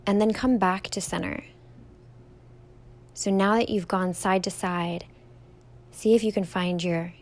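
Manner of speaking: calm, even meditation guide with long pauses; guided meditation. Real, not acted. Yoga teacher leading listeners through a standing meditation, calm guided delivery. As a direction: guide them gently through each step, leaving room to breathe.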